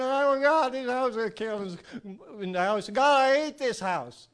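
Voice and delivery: loud, exasperated cry at the house; frustrated outburst. Retold or imitated. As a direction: let the frustration burst out. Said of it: "She got real. She let the feelings come up".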